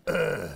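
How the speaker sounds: a lazy mock grunt; lightly imitated teen grunt. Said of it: "You're the grunt".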